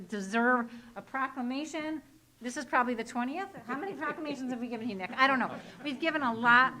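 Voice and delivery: muffled behind a mask; through face mask. Real, not acted. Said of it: "I got my mask on".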